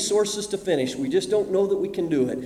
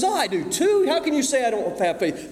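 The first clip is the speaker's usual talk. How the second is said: indignant protest; 5 semitones higher than usual. Retold or imitated. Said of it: "Someone says".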